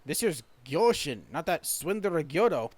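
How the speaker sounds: put-on drawn-out words in a Scottish accent. Shipwright realizing it is the wrong Namazu, Scottish accent. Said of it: "very Scottish accent".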